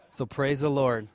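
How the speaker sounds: chuckling through the words; laughing. Real, not acted. Deacon laughing at his own joke to the church. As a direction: let the laugh spill into it.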